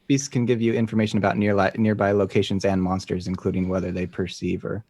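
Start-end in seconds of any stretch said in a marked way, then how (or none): none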